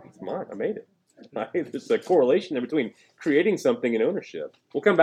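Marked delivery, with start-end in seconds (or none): 0.0-0.9 lightly voiced little kid. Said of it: "like a little kid who makes something".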